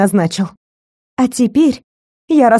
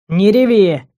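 gruff kidnapper snap. A narrator's reading. Kidnapper snapping at crying captive. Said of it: "прикрикнул Павел".

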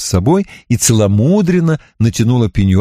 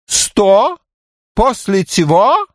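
confused; 12 semitones higher, much slower than usual. Acted. Drunk Zorka bewildered.

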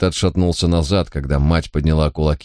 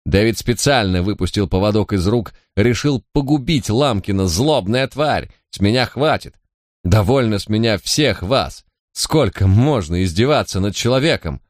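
anger; 3 semitones higher than usual. Acted. Furious accusation.

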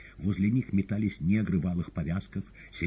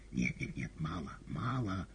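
hushed, softer aside; half-whispered prompting; urgent whisper; 8 dB quieter than usual. A narrator's reading. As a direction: murmur it under your breath, insistently. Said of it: "зашептал Коровьев".

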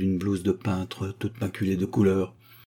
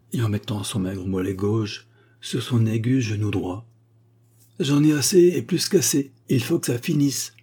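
higher, louder exasperated mummy; complaining that it's had enough; fed-up mummy; 4 semitones higher, 4 dB louder than usual. Acted.

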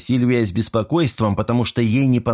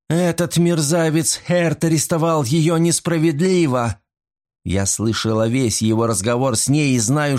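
heated defense; 6 semitones higher than usual. A narrator's reading. Mot defends her mother heatedly.

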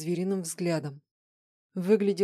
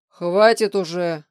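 irritated shout; 10 dB louder, slower than usual. A narrator's reading. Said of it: "раздражённо закричал Владимир Валерьевич".

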